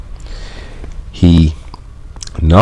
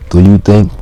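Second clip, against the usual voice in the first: mailman calling; 5 semitones higher, faster than usual. Acted. Literal translation, mailman voice.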